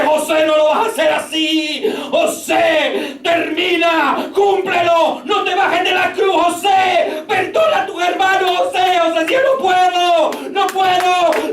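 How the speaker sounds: high, shouted pleading call; preacher voicing the Spirit calling José; voice of God's Spirit. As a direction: urge José to forgive, insistently. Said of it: "la voz del Espíritu de Dios".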